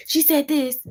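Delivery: mock tattling. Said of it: "I'm like".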